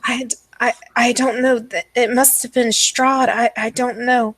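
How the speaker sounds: lightly voiced, flustered stammering mother; a hint of helpless confusion; distraught madwoman. Game master plays distraught mother.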